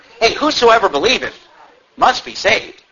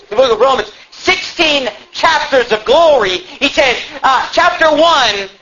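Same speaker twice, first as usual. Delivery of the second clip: raised, driving pulpit delivery; impassioned preaching; 6 semitones higher than usual. Acted. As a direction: preach it with rising fervor, pitched up. Preacher builds to fervent preaching.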